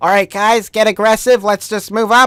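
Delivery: put-on high little kid voice.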